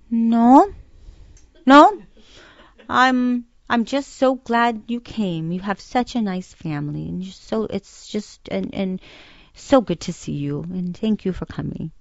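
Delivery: mock-loud, high "No", then easing into drawn-out niceties; voicing dad's gushing small talk, loud start settling down; imitating dad's deflection. Daughter retelling dad dodging her question, imitated deflection.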